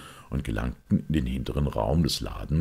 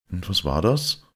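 higher, louder, eager questioning; Smith; 5 semitones higher, 4 dB louder than usual. Acted. Smith pressing Father Brown about his theory, higher and louder. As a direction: press the priest with a keen question.

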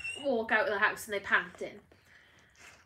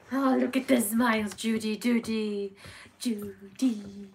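excited cooing; 6 dB louder, slower than usual. Real, not acted. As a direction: gush over the puppy out loud. Cooing loudly at puppy.

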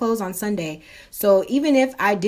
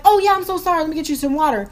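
apologetic staffer; 8 semitones higher, 4 dB louder, faster than usual. Retold or imitated. Acted apology from counter staff.

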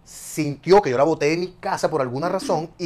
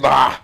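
jadeo imitado; 10 dB louder than usual. Acted. Imita cómo se pone uno.

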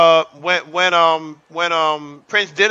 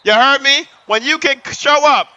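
hyped up; 4 semitones higher, 3 dB louder than usual. Real, not acted. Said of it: "hyping chat".

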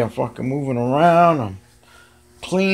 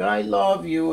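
imitating cat; 8 semitones higher than usual. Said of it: "he starts meowing".

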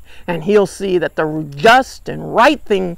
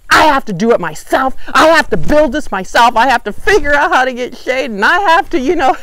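louder, rising self-pitying whine; whiny complaint; 4 semitones higher, 3 dB louder than usual. Acted. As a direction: keep piling on the complaint, each one higher. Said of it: "All he can say is".

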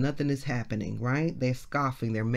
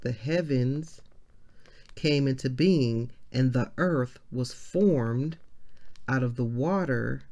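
scripture reading; slower than usual. Acted. Reads scripture aloud slowly.

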